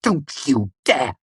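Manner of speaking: high warning cry; angry warning. A narrator's reading. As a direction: warn him off. Denna retorts.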